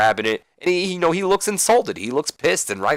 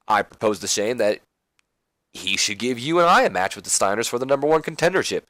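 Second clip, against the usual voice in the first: eager buddy voice. Retold or imitated. Hugh eagerly reports proposing match.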